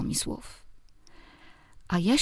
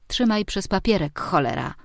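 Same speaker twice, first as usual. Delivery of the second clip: growled; 2 semitones higher than usual. Acted. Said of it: "warknęłam".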